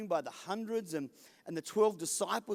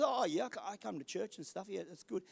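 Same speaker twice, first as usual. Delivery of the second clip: a lightly voiced shrugging churchgoer, much softer; mock offhand reply; 6 dB quieter than usual. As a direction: toss it off casually, trailing away. Congregant Kirsty's imagined reply.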